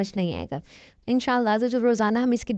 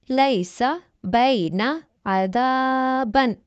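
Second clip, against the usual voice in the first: slow, measured tajweed reading of whole words; slow model recitation; 3 semitones higher, much slower than usual. Shown as a demonstration. Teacher reads the lesson words aloud once for students, slowly. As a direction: read each word slowly with correct lengthening. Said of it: "एक बार हवा में पढ़कर सुना देती हूँ".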